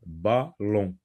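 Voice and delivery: Ballon broken into ba, pause, lon; Ballon split by syllable. Shown as a demonstration. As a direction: sound out Ballon in two separate beats. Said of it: "en deux syllabes".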